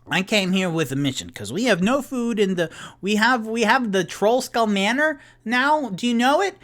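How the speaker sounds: high, loud, tipsy insistence; loud excited drunk. Acted. Tipsy telling Bonnie about the new manor, loud excited drunk. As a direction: push it out high and over-eager.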